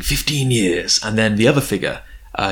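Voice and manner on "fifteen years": slow, measured mock quote; lightly voiced second in command; Fuyutsuki. Paraphrasing the second in command, slow delivery. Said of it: "He says something like".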